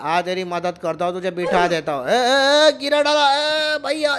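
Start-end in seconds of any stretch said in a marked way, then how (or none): 2.1-4.2 startled yelp. Acted. Dropped while being lifted.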